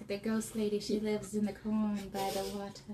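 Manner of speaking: put-on old hag. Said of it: "I'd make such a good creepy witch".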